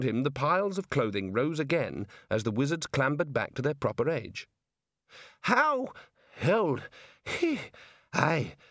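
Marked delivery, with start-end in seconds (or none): 5.4-8.6 breathless words with gaps; panting. A narrator's reading. Aged Ponder asks how old he looks, panting. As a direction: pant between each word. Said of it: "he panted".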